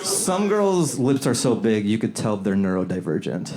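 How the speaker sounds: slow it down so they get the joke. Shown as a demonstration. Comic explaining a missed joke to a friend, slow repeat. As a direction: repeat the punchline slowly. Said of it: "You don't get it?".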